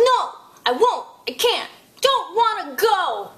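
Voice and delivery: whiny mock tantrum; temper tantrum. Child refusing to go to supper, mock tantrum. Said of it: "somebody's having a temper tantrum".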